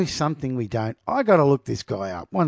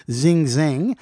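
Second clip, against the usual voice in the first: slow careful name; 3 dB louder than usual. Shown as a demonstration. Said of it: "I'm gonna love this".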